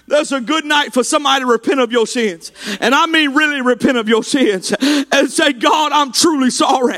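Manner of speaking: driving, impassioned call to repentance; fervent revival preacher pleading with the congregation; full-force preaching. Real, not acted. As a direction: preach it hard, climbing in pitch at the end.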